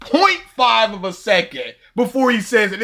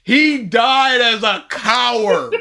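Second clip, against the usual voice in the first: slow sneering line, laughing; mock sneer; 4 semitones higher, slower than usual. Fan quoting Voldemort's speech, laughing. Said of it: "I love that whole speech of".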